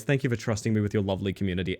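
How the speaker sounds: usual speaking voice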